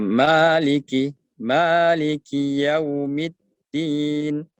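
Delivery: slow Maliki Yaumiddin with a full ki; slow recitation. Shown as a demonstration. Teacher modelling the verse for students. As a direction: finish the kasrah of ki fully. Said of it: "berbaris kasrah, sempurnakan".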